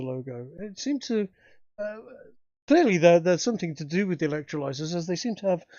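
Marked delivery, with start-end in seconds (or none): none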